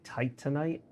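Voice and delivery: TITANITE said as TIGHT-un-ite; rejected pronunciation. Shown as a demonstration. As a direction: stress the start of Titanite, weak middle syllable. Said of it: "I don't think we're supposed to say".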